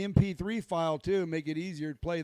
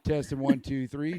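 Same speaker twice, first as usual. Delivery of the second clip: louder mic check; booming Marine voice; 3 semitones lower, 4 dB louder than usual. Real, not acted. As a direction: project like a Marine. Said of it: "use your booming Marine voice".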